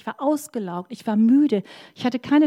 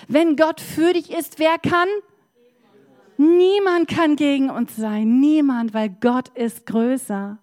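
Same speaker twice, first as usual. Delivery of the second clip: preaching at full force; 3 semitones higher, 4 dB louder, slower than usual. Real, not acted. Preacher's climax declaration.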